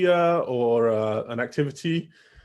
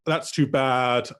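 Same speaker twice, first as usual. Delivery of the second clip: slow, measured demo of commiseration; drawn-out sympathy; much slower than usual. Shown as a demonstration. Teacher models a basic interjection for students, slow sympathy. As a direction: stretch out "too bad" slowly.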